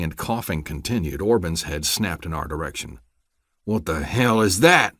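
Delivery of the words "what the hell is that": demanding. Acted. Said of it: "demanded Orban".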